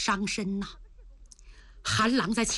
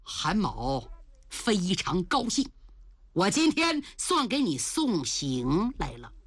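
suppressed anger; 3 semitones lower than usual. Acted. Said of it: "他强压怒火说".

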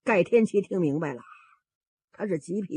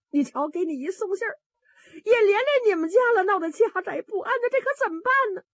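tearful lament; 10 semitones higher than usual. Acted. Guest mother apologizes tearfully to her in-law. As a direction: sob out the worry. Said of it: "这贺大奶奶也哭啊".

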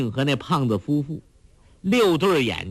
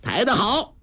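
high-pitched mock applause; cheering; 10 semitones higher than usual. A narrator's reading. Heroine and companion applaud the bearers, high cheer. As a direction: cheer them on, pitch leaping up. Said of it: "齐声喝彩".

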